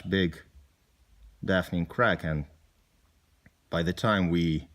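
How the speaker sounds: subdued and halting, with long pauses; low, broken-up phrases; somber recollection. Acted. Recalling a comrade killed by a mine.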